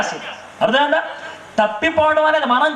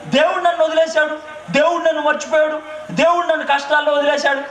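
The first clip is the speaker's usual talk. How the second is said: lightly whined complaint, pitched up; mock complaining believer; 4 semitones higher than usual. Preacher mimicking his congregation's lament, lightly whining. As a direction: imitate people lamenting that God left them, half-mocking. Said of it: "మీలో చాలా మంది ఏమంటారు?".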